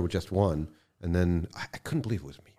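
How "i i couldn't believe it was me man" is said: whispered, breathless wonder; half-whispered in awe; a quiet aside of disbelief; hushed disbelief. Real, not acted. Awed aside about own work.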